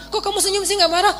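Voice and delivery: mock-outraged grumbling; nagging rant. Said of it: "makin dia ngomel".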